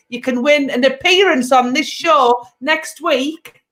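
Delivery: loud, bright host pitch for prizes; host hyping the audience about prizes; show host announcement. Acted. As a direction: sell the prize draw to the audience.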